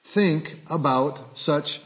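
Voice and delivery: measured scripture reading, each line weighed. Acted. Pastor reading Paul's letter to the church, measured. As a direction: read it out like a verse from the pulpit. Reads Philippians aloud.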